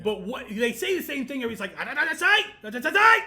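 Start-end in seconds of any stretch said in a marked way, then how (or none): 1.8-3.2 mock Japanese announcer. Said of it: "it's what it sounds like to me".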